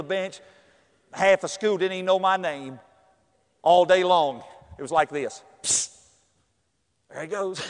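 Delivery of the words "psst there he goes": soft hushed psst, much quieter; classmates whispering. Retold or imitated. Schoolmates pointing him out in the hall, soft whisper. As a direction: hush it like gossip in the hallway.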